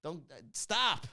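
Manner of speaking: a hint of a firm comforter; mock pep talk. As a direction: play the patient friend talking someone down. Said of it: "It's like".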